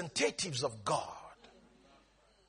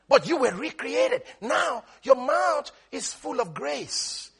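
emphatic preaching; 5 semitones higher, slower than usual. Acted. Preaches the closing point.

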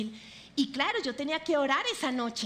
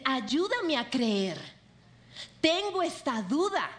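"Ayúdame a creer" drawn out very slowly; slow prayer; slower than usual. Shown as a demonstration. A believer with wounded faith slowly asking God for help. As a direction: pray it slowly and humbly. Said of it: "Tú puedes acercarte y decir".

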